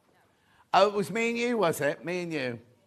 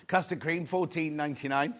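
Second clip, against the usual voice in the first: breathless and short of air; out of breath. Real, not acted. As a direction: talk while catching your breath. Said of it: "I'm out of breath".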